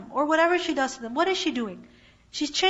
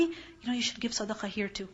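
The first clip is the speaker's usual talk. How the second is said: softly voiced confidential advice; quiet, discreet word to a friend; private aside; 2 semitones lower, 8 dB quieter than usual. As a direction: drop the volume, as if advising someone privately. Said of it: "privately, you tell somebody".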